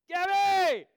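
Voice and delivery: high, loud call across a crowd; calling out a name. Retold or imitated. Father calling his daughter across the fair, loud. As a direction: yell a name over the noise.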